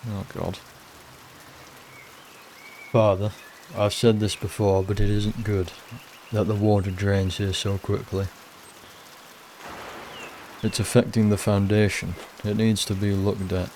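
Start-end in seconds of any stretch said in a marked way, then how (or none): 2.9-13.7 put-on northern accent for a game character; lightly voiced northern-accented workman. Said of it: "giving everyone, like, a northern accent".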